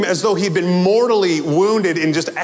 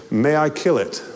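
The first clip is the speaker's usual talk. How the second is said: calm angel. Acted. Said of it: "in a very calm manner".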